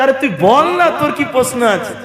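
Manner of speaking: laughing retelling. Real, not acted. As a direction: giggle while telling it. (হাসতে হাসতে বলা)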